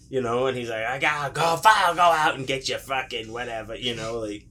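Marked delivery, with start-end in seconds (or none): 0.8-3.7 raised, exasperated mock grumble; mildly pissed-off dad. Dad pushed into an errand, mock irritated. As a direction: give in grudgingly, lightly acted. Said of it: "he's probably already pissed off".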